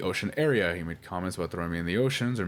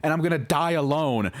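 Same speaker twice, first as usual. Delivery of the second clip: mock despair; 7 semitones higher than usual. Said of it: "she's like".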